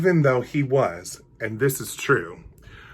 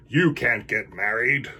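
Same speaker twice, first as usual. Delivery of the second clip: scary voice. Acted. Stink bug forbidding the bunnies, lightly scary. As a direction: forbid it like a petty boss. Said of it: "said a scary voice".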